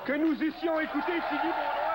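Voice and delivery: lofty, high and loud; haughty aristocratic french. Pretend. Mock imparfait du subjonctif.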